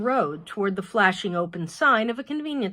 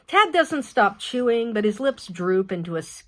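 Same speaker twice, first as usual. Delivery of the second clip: usual speaking voice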